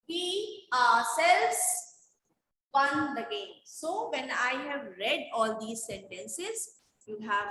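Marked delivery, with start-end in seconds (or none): 0.1-3.5 "ourselves" drawn out slowly with a rising end; stress on "ourselves". Shown as a demonstration. Teacher reads last example sentence to students, stress on "ourselves". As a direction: stretch "ourselves" and pause after it. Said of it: "The reading was lay stressing on".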